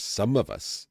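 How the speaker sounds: a last hammed-up Welsh lilt on "Some of us"; mock Welsh accent. Streamer mocking the TV Welsh accent before dropping it, sing-song Welsh. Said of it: "the exaggerated Welsh accent does exist".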